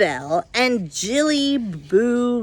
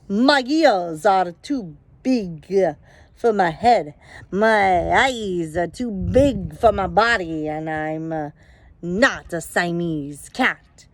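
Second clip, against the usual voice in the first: put-on Spanish accent; 3 semitones lower than usual. Kitten pretending to be a Chihuahua in a Spanish accent. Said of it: "his very best Spanish accent".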